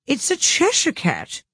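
put-on high, slow, gruff old duchess; rough, haughty duchess voice. A narrator's reading. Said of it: "said the Duchess".

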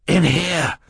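high-pitched call for help; urgent cry. A narrator's reading. Boy summoning adults to reptile room, urgent cry. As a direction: cry out as if frightened. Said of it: "Klaus cried".

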